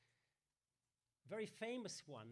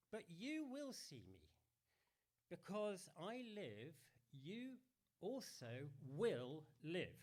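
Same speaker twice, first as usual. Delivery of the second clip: measured, solemn reading of the Gospel; scripture reading. Acted. Reads Gospel passage.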